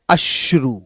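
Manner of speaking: अश्रु said low and firm with a clear श्र cluster; a clean low demo of अश्रु; model word. Shown as a demonstration. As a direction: drop the voice and state अश्रु. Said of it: "इसको हम क्या बोलते हैं".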